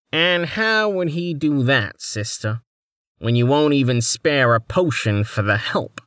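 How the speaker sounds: a lightly voiced snide nobleman; thin reedy voice. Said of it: "a reedy man's voice abruptly asked".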